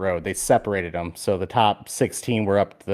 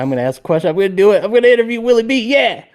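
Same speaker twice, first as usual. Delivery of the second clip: starts normal, climbs much higher with each line; building excitement; 11 semitones higher, 5 dB louder, faster than usual. Retold or imitated. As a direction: psych yourself up, rising higher and higher. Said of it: "I'm like".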